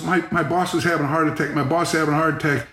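dramatic trainer. Retold or imitated. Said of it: "he gets drama".

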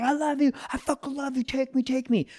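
high-pitched pleading puppy voice; high, needy little dog voice; adoring puppy. Acted. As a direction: gush like a smitten husky pup.

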